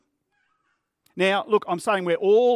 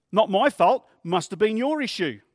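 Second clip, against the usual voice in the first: louder, indignant denial; defensive driver; 3 semitones higher, 5 dB louder than usual. Acted. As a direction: brush off the blame at the other driver.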